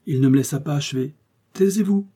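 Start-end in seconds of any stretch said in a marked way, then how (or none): 1.5-2.1 sharp, high hush-up; curt order, much higher; brusque command. Acted. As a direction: cut him off abruptly. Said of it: "dit-il brusquement".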